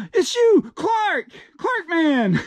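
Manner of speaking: gasp, then very high squeal of joy; hammed-up cry of recognition; overjoyed reunion. Father recognises lost son.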